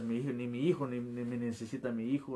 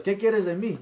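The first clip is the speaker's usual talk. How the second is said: high, loud, anguished demand; retold shout at God; 8 semitones higher, 8 dB louder than usual. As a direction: shout it up to God, reliving the moment. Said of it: "comencé a gritarle a Dios".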